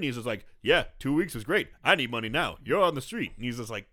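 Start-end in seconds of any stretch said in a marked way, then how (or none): 0.6-3.3 lightly voiced sassy landlord, a bit loud; sassy old landlord. Landlord threatening eviction, mildly sassy demand. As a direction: brush off the excuse with mild sass. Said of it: "some sassy old black guy".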